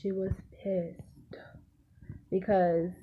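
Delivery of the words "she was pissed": "pissed" set apart and hissed at the end; stress on PISSED. Real, not acted. Storyteller underlining her mom's anger, stress on "pissed". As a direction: land on "pissed" in a lowered volume. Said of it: "When I say pissed".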